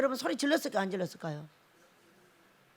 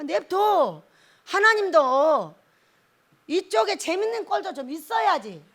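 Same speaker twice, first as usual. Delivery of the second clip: ordinary talk, nothing marked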